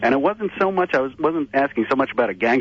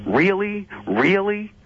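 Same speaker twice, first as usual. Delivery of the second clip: high, stretched disbelieving "Really? Really?"; mock Doctor Drew's shocked disbelief; incredulous really; 10 semitones higher, much slower than usual. Caller imitating Drew's incredulous really. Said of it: "and he goes".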